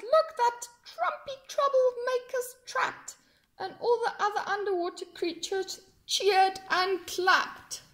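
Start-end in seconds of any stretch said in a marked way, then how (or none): 0.0-3.2 high crab voice, gloating. Acted. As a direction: sneer at the trapped fish.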